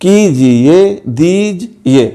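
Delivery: 1 slow. Shown as a demonstration. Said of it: "ऐसे अल्फाज हैं".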